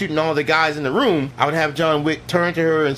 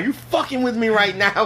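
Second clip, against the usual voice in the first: higher-pitched mock outrage; upset; 5 semitones higher than usual. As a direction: imitate an upset woman demanding an answer. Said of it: "I would have had her get upset".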